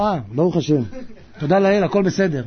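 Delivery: low, mock just-woken mumble; drowsy. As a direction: imitate a dozing worshipper answering. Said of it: "אתה יודע, הוא רדום".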